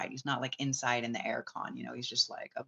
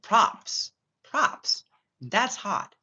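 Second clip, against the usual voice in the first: higher, louder impressed exclamation; excited approval; 7 semitones higher, 6 dB louder, much slower than usual. Retold or imitated. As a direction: cheer him on, impressed. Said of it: "I'm just like".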